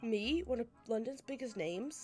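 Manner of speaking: self-important Irishman, mildly affronted; indignant Irish benefactor. Acted. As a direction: bluster lightly as an Irish bigwig.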